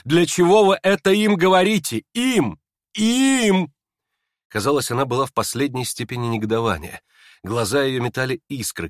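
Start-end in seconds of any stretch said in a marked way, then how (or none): 0.0-3.7 high, loud, rising to a shrill peak on Им; indignant outcry. Acted. Aglaya to the prince, outraged outcry. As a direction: fling the words at him, furious. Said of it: "вдруг вскричала Аглая".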